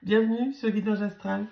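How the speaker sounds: raspy, worn-out voice; talking through a hoarse throat. Real, not acted. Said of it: "ma voix éraillée".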